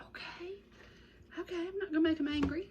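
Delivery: eager obedient reply. Retold or imitated. Young self answering granny.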